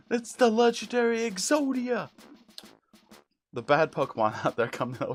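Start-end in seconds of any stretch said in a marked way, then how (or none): 0.1-2.1 high, loud anime awe; Yu-Gi-Oh impression. Player quoting Yu-Gi-Oh for laughs, loud high dramatic shock. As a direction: announce it like a shocked cartoon duelist. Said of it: "fucking Yu-Gi-Oh!".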